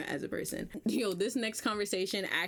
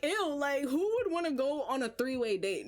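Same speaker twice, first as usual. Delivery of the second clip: higher-pitched acted disgust; grossed out; 5 semitones higher than usual. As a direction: react with an incredulous "ew". Her acted disgusted reaction.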